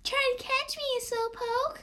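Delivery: high, whispered taunt; taunting trickster. Acted. The stranger taunts Maya as he runs, high and whispered.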